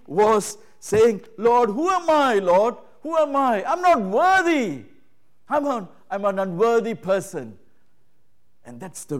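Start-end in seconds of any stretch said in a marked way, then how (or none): 1.4-7.6 Mary's humble plea. Retold or imitated. Preacher again voicing Mary's plea.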